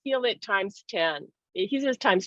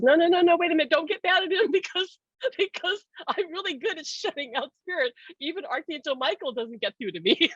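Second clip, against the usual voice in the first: higher-pitched, mildly urgent retelling of a friend's protest; excited protest; 7 semitones higher than usual. Retold or imitated. Friend heading off her anger at him, excited protest. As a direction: quote the friend in a raised, lively voice.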